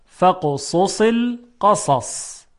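slow model reading of فقصص القصص, last ص held without a vowel; فقصص القصص with every ص clearly hissed; pausal ending demo. Shown as a demonstration. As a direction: say فقصص القصص slowly, stopping on a silent final ص. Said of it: "حالا اگرم خواستیم وقف کنیم".

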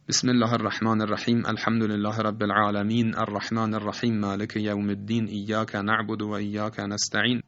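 wrong way of reciting. Shown as a demonstration. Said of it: "اینطور نخواند".

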